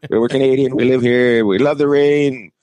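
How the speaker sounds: lightly hammed-up boasting; mock bragging. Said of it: "they like to brag about".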